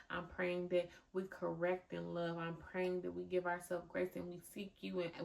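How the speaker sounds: a host closing her episode with prayer. Acted. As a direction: pray quietly over the listeners. Prays for the listeners.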